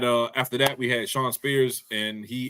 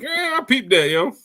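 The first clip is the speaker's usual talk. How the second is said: excited; 12 semitones higher, 6 dB louder than usual. Retold or imitated. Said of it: "I was like".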